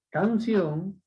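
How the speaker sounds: canción with the O leaned on; stress on last syllable. Shown as a demonstration. Teacher showing an aguda ending in N, stress on CIÓN in canción. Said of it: "son agudas".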